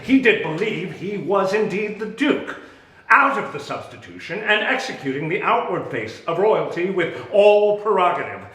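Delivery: mounting fury at a brother; rising indignation. Acted.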